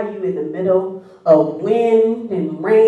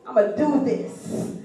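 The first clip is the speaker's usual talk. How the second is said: soft, slow muttered resolve; quiet self-talk; 8 dB quieter, slower than usual. Retold or imitated. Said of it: "I got on the boat".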